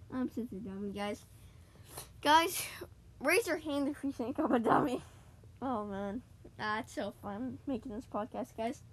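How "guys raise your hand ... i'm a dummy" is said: louder, playful call to the audience. Real, not acted. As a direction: call out to the listeners, joking. Mock calling out to listeners.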